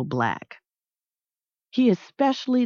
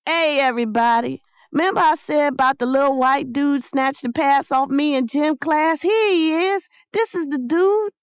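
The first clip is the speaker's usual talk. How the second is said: high, grinning shout to the whole crowd; excited kid announcing a find, climbing higher as he goes; calling out; 8 semitones higher, 4 dB louder than usual. A narrator's reading. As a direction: call everyone over, pitch rising to a peak. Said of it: "broke open a billboard grin and called out".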